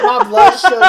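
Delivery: mock high whine about blood sugar; whiny diabetic voice. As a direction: whimper it like a fainting diabetic. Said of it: "the way you fucking said it".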